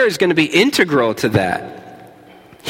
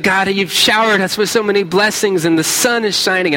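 a hint of a sunny, upbeat prayer, pitched higher; imitating Katie's prayer; 4 semitones higher than usual. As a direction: lightly mimic a cheerful friend praying. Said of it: "And then I hear Katie pray".

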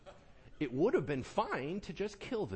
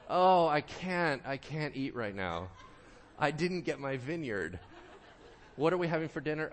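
whiny sulking king. Retold or imitated. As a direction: pout like a child refusing dinner. Sulking king refuses food.

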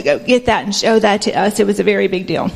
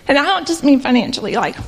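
emotional; 2 semitones higher than usual. Real, not acted. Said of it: "this is probably where I get emotional".

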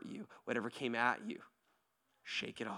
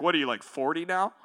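imitating a youth kid; 6 semitones higher, 15 dB louder than usual. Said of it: "he also was like".

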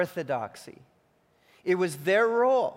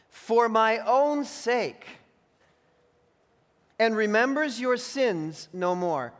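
proclaiming God's words; 4 semitones higher, 4 dB louder, slower than usual. Acted. Preacher reads God's words.

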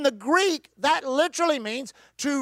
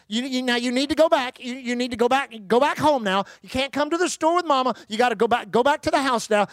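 more authoritative. Retold or imitated. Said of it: "a little more authoritative".

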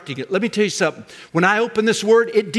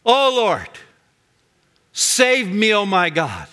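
raised cry for help, falling away at the end; invoking God. Retold or imitated. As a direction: call up to God, then let it sink. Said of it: "invoking the name of God".

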